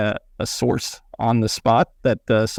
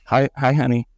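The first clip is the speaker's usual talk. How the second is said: muffled behind a Grinch mask; greeting through a mask; inside a rubber mask; 4 semitones higher than usual. Real, not acted. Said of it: "I gotta stay in character".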